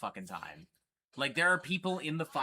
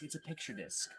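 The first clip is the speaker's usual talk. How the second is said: a quiet, silly squeak of a repeat; squeaky high voice; 11 dB quieter than usual. Pretend. Showing a picture disc to viewers, squeaky high repeat. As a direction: repeat it in a tiny, much higher voice.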